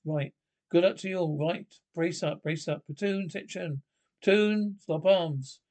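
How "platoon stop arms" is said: parade ground bark. Acted. Parade ground drill commands.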